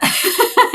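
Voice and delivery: high, loud burst of laughter; a nervous, relieved laugh. Real, not acted. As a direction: laugh off the tears. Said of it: "I'm trying to take a minute".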